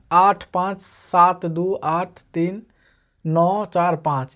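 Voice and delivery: slow, careful digit-by-digit reading; reading digits slowly. Shown as a demonstration. Teacher reads out the number's digits slowly to students. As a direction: read each digit out slowly for the class. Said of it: "यहाँ है संख्या".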